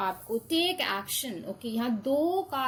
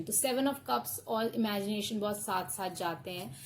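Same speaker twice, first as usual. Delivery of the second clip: ordinary talk, nothing marked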